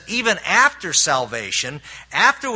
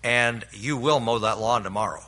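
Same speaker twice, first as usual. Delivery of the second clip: stern father; 4 semitones lower than usual. Retold or imitated. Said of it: "my father would make the statement".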